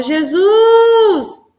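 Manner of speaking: high, anguished wail to Jesus, slow in places; reliving a desperate sobbing plea; crying out to Jesus. Retold or imitated. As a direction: cry out to the Lord as if abandoned. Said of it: "e eu gritava, falava".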